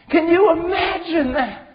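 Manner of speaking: shouting the question a second time to the church; shouted. Real, not acted. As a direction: throw the question out to the room. Preacher repeats question, shouted.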